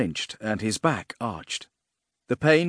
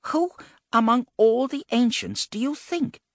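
loud, high-pitched indignation; incredulous and angered; 13 semitones higher, 4 dB louder than usual. A narrator's reading. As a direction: demand it in offended disbelief. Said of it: "incredulous and angered".

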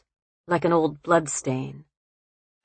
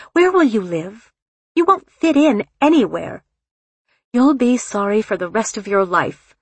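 high, urgent, fearful pleading; desperate warning; 5 semitones higher, 4 dB louder than usual. A narrator's reading. Mother frightened for her daughter on her wedding day, desperate. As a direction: press each warning home desperately. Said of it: "desperately. The look in her eyes was fear".

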